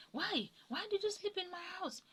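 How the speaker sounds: mother-in-law shouting in mock fury; imitating angry shouting. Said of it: "And she was shouting".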